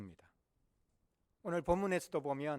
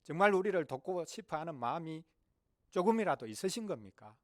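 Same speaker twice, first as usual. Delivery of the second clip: complaining; 2 semitones higher than usual. Acted. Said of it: "불평을 해댔습니다".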